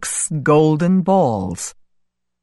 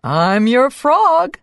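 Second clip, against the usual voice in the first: smiling; 5 semitones higher, 3 dB louder, slower than usual. Acted. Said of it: "he smiled".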